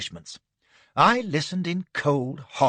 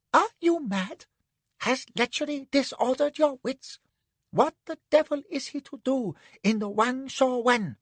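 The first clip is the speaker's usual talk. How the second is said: much higher, outraged man's voice; shocked protest; 12 semitones higher than usual. Acted. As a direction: object in a horrified rush. Anne protests in alarm.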